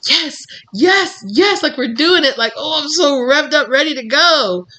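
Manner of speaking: bubbly, revved-up yes yes yes; excited soul. Retold or imitated. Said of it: "your soul is like".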